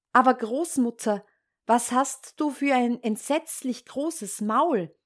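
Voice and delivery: a hint of shocked Red Riding Hood; lightly voiced alarmed child. Red Riding Hood questions disguised wolf.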